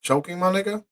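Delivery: high stunned question; incredulous. Real, not acted. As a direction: ask it in outraged disbelief. Shocked by choking claim.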